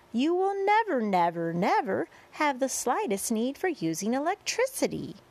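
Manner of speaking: lively showman's rhyme with high peaks; sing-song verse introduction. A narrator's reading. Boy presenting grasshopper to crowd, sing-song verse. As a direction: sell each act in bouncy verse.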